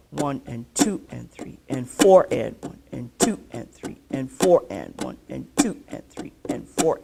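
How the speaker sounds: "two" and "four" stressed in the count; accent on two and four. Shown as a demonstration. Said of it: "two and four".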